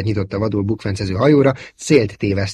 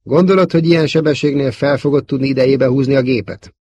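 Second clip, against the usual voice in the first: anxious question; 5 semitones higher, 5 dB louder than usual. A narrator's reading. Bix doubts at speed.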